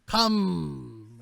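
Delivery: high, slow, wailing crone; old lady fortune teller. Acted. Old woman says there is no time, high drawn-out crone voice. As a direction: urge them in with long drawn-out high words. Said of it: "old, old lady".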